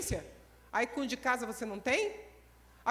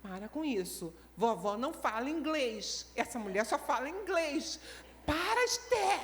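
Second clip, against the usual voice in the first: imitating Pastor Rosângela. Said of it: "Tô imitando a pastora Rosângela".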